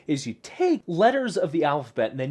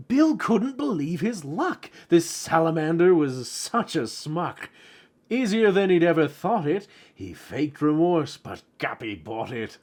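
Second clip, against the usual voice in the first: poem read aloud; 3 semitones higher than usual. Acted. Reads rhyming poem from book.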